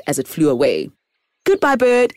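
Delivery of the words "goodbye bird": calling out. Acted. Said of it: "shouted Oki".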